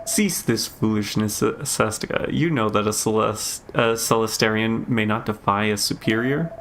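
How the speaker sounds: lightly voiced stern master, slightly low. Master ordering a defiant pupil to cease, lightly stern. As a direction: give a mild air of cold authority.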